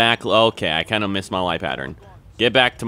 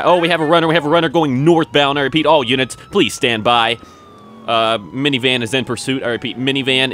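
louder, higher dispatch-style call; mock police radio call; 3 semitones higher, 4 dB louder than usual. Officer radioing all units about a runner, loud. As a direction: announce the chase to all units. Calls out chase over radio.

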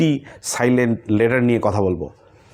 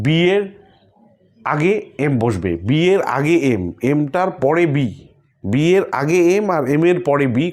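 rule stressed slowly; 2 semitones higher, slower than usual. Shown as a demonstration. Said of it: "কথাটা কিন্তু একই".

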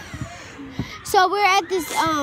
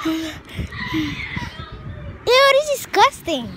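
disgusted; 9 semitones higher than usual. Real, not acted. Eating bad Skittles.

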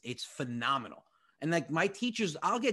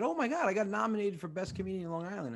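retold excitement; 7 semitones higher, faster than usual. Retells excitement at his nomination.

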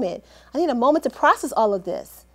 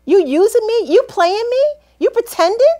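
angry accusation; 7 semitones higher, 5 dB louder than usual. Acted. Confronting absent friend Dee Dee.

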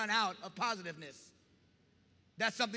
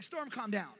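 calm command; 5 dB quieter than usual. Retold or imitated. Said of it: "He's like".

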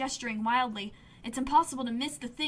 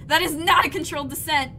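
alarmed exclaim; 4 semitones higher, 9 dB louder than usual. Acted. Ship crashing down.

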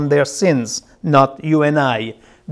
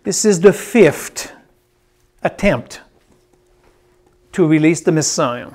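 broken into short phrases with long pauses; 3 dB quieter than usual. Real, not acted. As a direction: pause after "fifth" and again after "attempt". Dictating a note to listeners.

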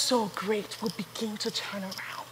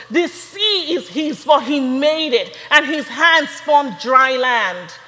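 scripture reading; 3 dB louder than usual. Acted. Reads Psalm ninety-five aloud.

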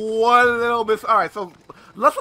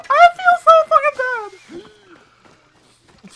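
much higher, slow, strained through laughter; laughing too hard to feel sorry; laughing guilt; 10 dB louder, much slower than usual. Real, not acted. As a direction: squeeze it out while laughing. Laughs about the chase.

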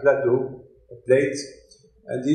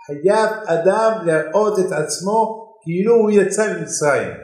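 Haggadah recitation; 6 semitones higher, much faster than usual. Retold or imitated. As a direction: rattle off the Hebrew verse quickly, a little higher. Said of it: "in the Haggadah".

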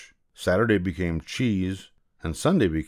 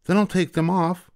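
calling out; 11 semitones higher than usual. Acted. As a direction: demand at the door. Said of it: "the mother said".

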